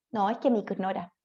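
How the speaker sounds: "ignora" with a K for the g; ultracorrected G. Shown as a demonstration. Teacher quotes someone overcorrecting, "ignora" said with a hard K. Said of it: "exagera mucho algún fonema".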